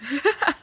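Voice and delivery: short embarrassed laugh; a quick giggle, a little breathy; brief self-conscious laugh; sheepish giggle. Real, not acted. Laughs at her own confession.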